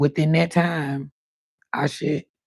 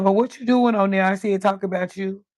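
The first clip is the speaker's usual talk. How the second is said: mother curious; 4 semitones higher than usual. Retold or imitated. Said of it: "She said".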